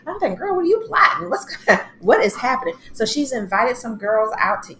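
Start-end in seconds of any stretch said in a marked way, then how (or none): 0.4-2.7 high, loud teasing call-out; amused disbelief. Real, not acted. Reacting to Giselle's scheming, high and loud. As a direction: call her out with a laugh.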